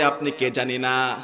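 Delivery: understated imitation of a crying mother; retold tearful plea. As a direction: lightly act out her helpless lament. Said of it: "বৃদ্ধা মহিলা কেঁদে ফেলে বলতেছে".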